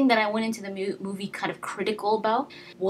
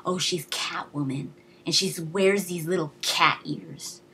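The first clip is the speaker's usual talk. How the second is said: cheesy mockery. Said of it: "it wasn't cheesy".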